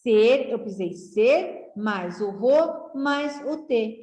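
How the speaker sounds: ser, ro, te each set apart; teacher breaking serrote into syllables. Shown as a demonstration. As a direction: sound out serrote in pieces. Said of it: "Pra formar essa palavra".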